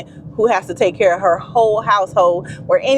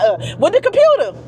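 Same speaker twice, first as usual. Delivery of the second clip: higher, fretful self-mocking rant; mock second-guessing; 4 semitones higher than usual. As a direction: play your own nagging doubts, pitched up. Imitating own anxious second-guessing.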